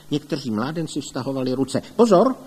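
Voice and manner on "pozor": loud, high warning cry; sudden sonorous command to take care; resonant shout. A narrator's reading. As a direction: shout out broad and ringing. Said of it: "vzkřikl Heribert hlasem k neuvěření širokým a zvučným".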